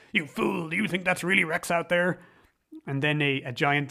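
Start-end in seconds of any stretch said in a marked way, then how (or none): 0.1-2.2 mock stern rebuke, pitched higher; a hint of a stern scolding. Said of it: "the Duke has to get stern and say".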